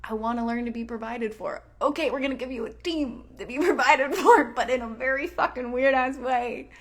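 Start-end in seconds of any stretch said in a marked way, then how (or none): 1.8-6.7 voicing the universe. The universe answering her wishes.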